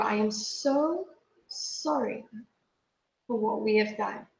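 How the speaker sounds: soft, slow and close to tears; emotional apology. Retold or imitated. Woman recalling her apology to a lion, emotional. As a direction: apologise quietly, holding back the urge to cry. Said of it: "I'm sorry that I'm getting emotional".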